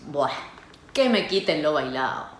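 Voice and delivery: a light Buenos Aires porteño lilt on que me quiten lo bailao; understated porteño Spanish accent. Shown as a demonstration. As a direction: say it like a proud porteño, drawing out Buah. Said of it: "bring out your best porteño accent".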